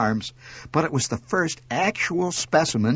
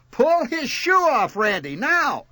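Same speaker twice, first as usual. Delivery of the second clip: high, frantic yelled command; 12 semitones higher, 3 dB louder, slower than usual. A narrator's reading. Mother needs son to free her finger, frantic. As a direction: order it desperately, pitch way up. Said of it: "She was frantic".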